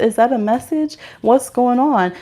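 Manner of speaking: normal talking voice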